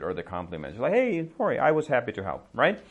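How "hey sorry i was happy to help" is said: casual brush-off. Shown as a demonstration. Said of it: "brush off the gratitude".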